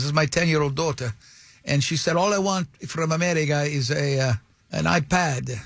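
imitated Italian-accented English. Italian father relaying his daughter's wish, Italian accent. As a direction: make the plea in a put-on Italian accent. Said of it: "that is the accent he used".

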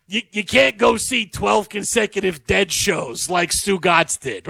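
slow, drawn-out, lightly put-on voice of a sports radio host; Stu Gatz impression. Host teasing a co-host about Dead shows, in a slow, lightly put-on impression. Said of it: "My Stu Gatz impression's pretty good".

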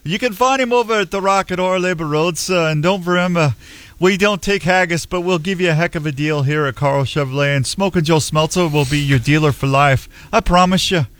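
put-on Scottish valet accent; loose, badly faked Scottish accent. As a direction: sell it in a mock Scottish brogue. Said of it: "I had to switch it to Scottish".

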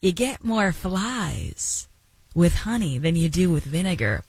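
slow, put-on folksy saying; folksy proverb voice. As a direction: deliver the old saying with a wink. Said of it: "make me do my thing here".

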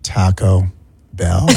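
"Taco... Bell" very low, with a pause between; overcareful emphasis. Shown as a demonstration. Host attempts the right way on request, halting emphasis. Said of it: "I can't do it".

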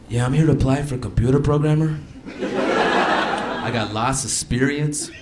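lightly played Hispanic accent, laughing through it; mock Hispanic accent. Comic playing himself at a job interview in a Hispanic accent. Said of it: "if, like, Hispanics ran this country".

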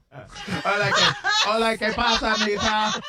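laughing, lightly put-on Spanish accent; a hint of a hammed-up Spanish accent; mock Spanish accent. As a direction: greet in a jokey Spanish accent. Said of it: "Why do you say it like you're from Osaka".

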